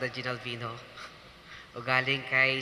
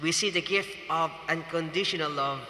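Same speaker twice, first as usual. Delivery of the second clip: preaching; 2 semitones higher than usual. Acted. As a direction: preach it to the congregation, measured and solemn. Wedding homily resumes.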